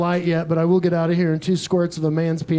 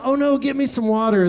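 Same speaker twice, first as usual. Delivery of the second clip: higher, mock-polite plea for help; mildly distressed choker; 5 semitones higher than usual. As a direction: play down a minor choking fit. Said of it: "not like a".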